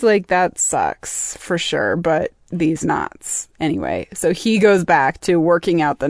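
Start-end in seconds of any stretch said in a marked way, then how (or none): 0.3-3.5 put-on Cockney accent. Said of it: "Does Carney have a, a Cockney accent?".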